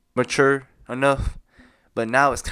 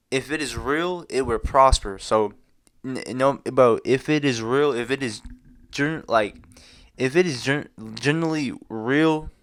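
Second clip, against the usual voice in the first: talking with a retainer in; words slurred around a retainer; wearing a retainer. Real, not acted. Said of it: "I can't speak because I got my retainers in".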